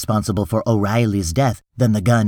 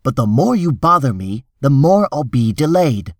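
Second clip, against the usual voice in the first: higher-pitched, urgent persuading; insistent reassurance; 5 semitones higher than usual. Acted. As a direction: press them to believe you. Hartz reassures then warns desperate client.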